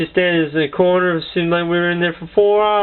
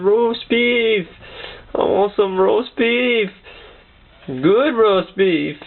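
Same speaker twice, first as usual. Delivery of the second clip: slow, drawn-out dreamy muttering; stretched-out words of a mock sleep talker; sleep-talking cousin; 3 semitones higher, much slower than usual. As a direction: imitate someone talking in their sleep. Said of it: "He's talking in his sleep".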